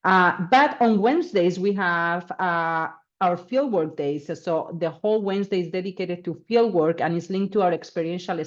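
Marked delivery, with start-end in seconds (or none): none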